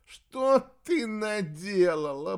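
moaning. A narrator's reading. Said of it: "простонала Зарифа".

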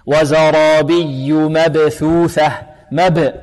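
slow chant with echoed b in مبثوثة; bouncing qalqalah. Shown as a demonstration. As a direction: bounce the ب of مبثوثة after a stressed yaa. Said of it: "حرف مقلقل". (ترتيل متأنٍ مع قلقلة باء مبثوثة)

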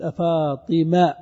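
slow "أفاطمة" with the t dropped, ending in -ma; clipped name, fatha ending. Shown as a demonstration. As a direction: draw out "أفاطمة", keeping the final short a. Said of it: "فحذف التاء على اللغة المشهورة لغة من ينتظر".

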